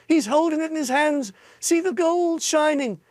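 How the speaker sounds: high, awed bystander; marvelling crowd. A narrator's reading. A girl in the crowd marvels, high and awed. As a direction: marvel at the gold.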